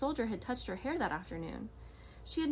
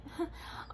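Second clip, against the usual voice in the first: forced giggle; 8 semitones higher, 5 dB quieter than usual. A narrator's reading. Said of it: "tried to giggle the way".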